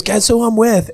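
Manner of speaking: high-pitched mock girlish voice; imitated girl. Imitating girl's teasing call.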